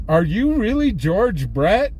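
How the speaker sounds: imitated wide-eyed disbelief; awestruck kid. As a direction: ask like a starstruck kid. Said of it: "this kid is losing his mind".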